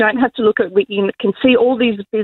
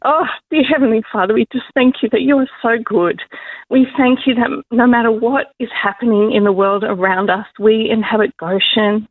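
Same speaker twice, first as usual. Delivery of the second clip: earnest spoken prayer, steady and sincere; intercessory prayer for those in dark places; heartfelt prayer. Acted. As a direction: pray over the listeners. Leads a prayer for listeners.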